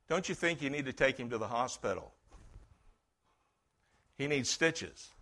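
softly retold, unruffled suggestion; cool and calm. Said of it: "he was cool, calm, and collective".

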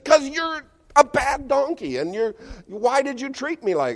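high, loud, indignant donkey voice; shrill up high, protesting; talking donkey. Acted. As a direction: squeal it as the offended donkey. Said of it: "He says".

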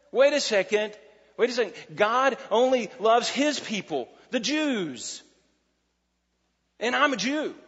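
a hint of an indignant Pharisee; Nicodemus objecting. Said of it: "You can hear Nicodemus's thinking there".

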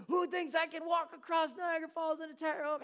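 high, loud showman call; mock megaphone call to the crowd. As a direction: shout the challenge across the falls.

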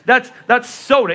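teasing, know-it-all correction, laughing; mock lecturing. Pastor retelling schooling Texans on soda, mock-lecturing. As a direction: lay down the law on soda, grinning. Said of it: "I'm like".

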